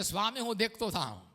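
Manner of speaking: soft quiet સ્વામી, હું દેખતો થાઉં; quiet plea. Shown as a demonstration. Blind man asking the Lord, quiet and humble. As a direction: say it softly, a humble request. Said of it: "તો કહે છે".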